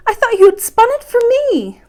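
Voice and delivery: high, loud, hurt protest; dismayed protest. A narrator's reading. Princess to grandmother, high loud hurt protest. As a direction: protest that her gift is gone.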